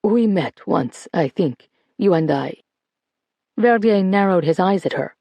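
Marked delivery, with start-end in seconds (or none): 0.0-2.6 calm. Acted. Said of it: "said as calmly as possible".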